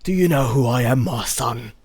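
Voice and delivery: a British hard man voice; British accent. Retold or imitated. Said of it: "the more you hop around Britain".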